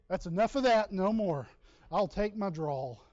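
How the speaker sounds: loud, emphatic retold protest; mock firm refusal. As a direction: put your foot down loudly, playing it up. Retold rejection of being mistaken.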